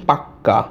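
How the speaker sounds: পাক্কা with a long held ক; doubled consonant. Shown as a demonstration. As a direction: hold the ক in পাক্কা before releasing it. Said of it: "কটা এখানে double হয়ে গেছে".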